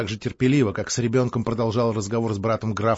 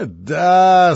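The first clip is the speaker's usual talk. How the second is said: laughing; 6 semitones higher, 7 dB louder than usual. Acted. Laughing boast.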